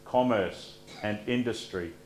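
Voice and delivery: steady liturgical prayer voice. Acted. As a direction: pray it calmly to the congregation. Pastor leads prayers of the people.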